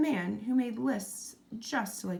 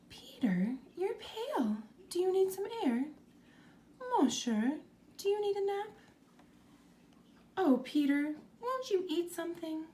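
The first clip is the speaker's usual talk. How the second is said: higher fretful mother, hushed at first; fussing mother; 9 semitones higher than usual. A narrator's reading. Mother fussing over her pale son, higher and anxious. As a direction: pepper him with worried questions. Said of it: "Mother peppered him with questions".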